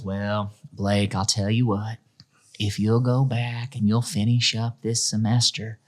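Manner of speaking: a light impression of an easygoing old superintendent; lightly voiced small-town school boss making an offer; Gary's cadence. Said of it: "that was kind of the cadence of his voice".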